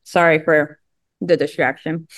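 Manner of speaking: talking around a mint; words slurred by a mint in mouth. Real, not acted. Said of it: "I had to put a mint in my mouth".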